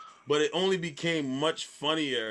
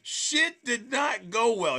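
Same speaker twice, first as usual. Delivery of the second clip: laughing disbelief; 8 semitones higher, 4 dB louder than usual. Real, not acted. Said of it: "laughing disbelief at the judge".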